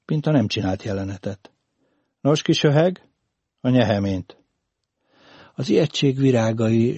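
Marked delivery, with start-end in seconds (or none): 2.2-4.4 "öheg" and "nyeheményt" with H for R; burred R. A narrator's reading. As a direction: demand it with an R defect in "nyeheményt". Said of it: "Most nem racsolt".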